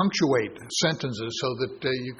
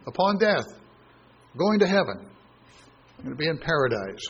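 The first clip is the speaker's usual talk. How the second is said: higher-pitched, eager imitation of a doubter; lightly mock the people who misread it; mocking objector; 5 semitones higher than usual. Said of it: "Well, people say".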